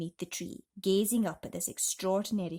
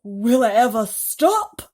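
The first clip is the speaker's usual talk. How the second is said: loud, higher shout; Aunt Sponge shouting; 3 semitones higher, 13 dB louder than usual. A narrator's reading. Aunt shouts at the swelling peach, loud. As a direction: shout it out in wonder. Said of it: "Aunt Sponge shouted".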